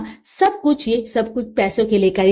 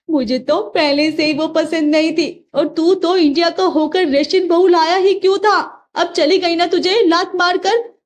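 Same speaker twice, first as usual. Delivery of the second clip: raised, reproachful mother voice; scolding mother; 5 semitones higher than usual. Acted. Mother scolds son over the runaway bride. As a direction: scold him for bringing her.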